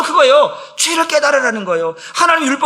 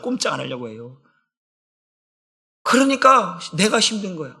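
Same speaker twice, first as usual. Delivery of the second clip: normal talking voice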